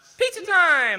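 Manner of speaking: very high, loud, with words stretched out. Answering a fan's request to say a line in Deku's voice. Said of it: "can you say pizza time in Deku's voice?".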